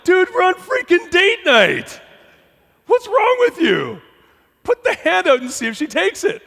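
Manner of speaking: mock-exasperated inner coach; sensible inner voice. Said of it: "the other part was like".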